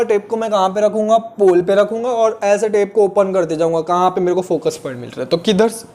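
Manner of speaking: normal talking voice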